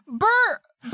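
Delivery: loud, high shout across the distance; calling out. Acted. Player's character runs at the guard, shouting his name. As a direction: yell his name to grab his attention. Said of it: "and be like".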